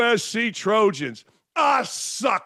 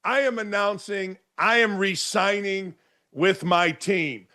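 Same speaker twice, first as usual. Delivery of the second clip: mock announcement. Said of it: "with this whole".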